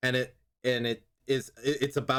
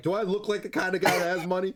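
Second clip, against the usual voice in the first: acted angry, pissed-off tough-guy voice, pitched up; 6 semitones higher than usual. Retelling a movie scene where a man is getting robbed: imitating a pissed-off man. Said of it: "and he's like all pissed off".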